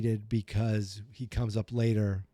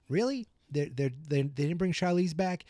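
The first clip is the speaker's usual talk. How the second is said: retold surprise; 5 semitones higher than usual. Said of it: "and I remember thinking".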